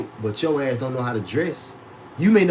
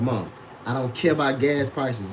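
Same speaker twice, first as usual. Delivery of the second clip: softer, lower, politely shrugging it off; polite version; 3 semitones lower, 4 dB quieter than usual. Retold or imitated. What he really tells his mom, soft and polite. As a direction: tone it down, respectful to mom. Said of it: "I ain't say that, but I just be like".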